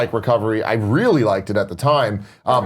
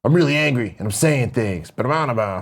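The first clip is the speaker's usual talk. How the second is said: angry rapper. Retold or imitated. Host contrasting a rapper's later voice, mildly mock-angry. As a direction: lightly imitate a rapper turned serious and mad. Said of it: "it turned into more like".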